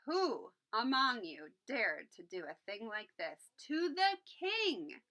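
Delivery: loud, rising angry demand; roared. Acted. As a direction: roar it at the insects. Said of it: "the king roared".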